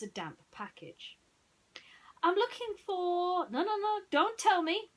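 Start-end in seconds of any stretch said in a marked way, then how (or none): 2.2-3.5 timid whisper. Acted. Timid student begins. 3.5-4.9 high, loud, eager cutting-in; detective interrupting the visitor; excited Basil. Acted. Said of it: "Basil said".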